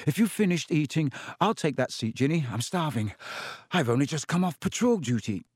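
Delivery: a touch of a fussy prefect, tired; brisk and self-important, lightly done; lightly voiced prim older brother. Prefect Percy claiming his sister's seat, mildly fussy.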